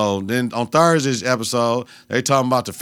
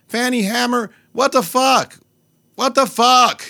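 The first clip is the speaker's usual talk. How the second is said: shocked outcry; 11 semitones higher, 3 dB louder, slower than usual. Real, not acted. Shocked at the brick lady.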